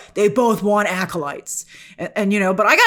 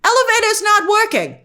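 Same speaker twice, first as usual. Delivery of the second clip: higher, musing mock villain; a hint of a scheming Saul; 6 semitones higher than usual. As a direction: play him as smugly pondering. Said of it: "He's like".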